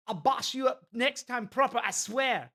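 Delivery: rough attempt at Welsh slang delivery; Welsh accent. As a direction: imitate a feisty Welsh character. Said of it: "she had a lot of Welsh".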